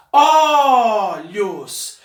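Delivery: "Olhos" drawn out slowly, each sound clear; spelling-out voice. Shown as a demonstration. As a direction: read "Olhos" slowly for the class. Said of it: "vamos anotar a palavrinha olhos".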